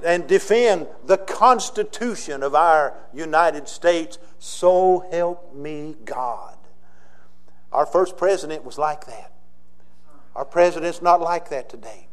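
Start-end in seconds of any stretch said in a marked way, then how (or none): 0.0-6.5 a lightly voiced George Washington, slower and measured; solemn oath, unhurried and grave; George Washington speech. Pastor previews Washington's oath for the congregation, lightly voiced. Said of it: "And then George Washington says".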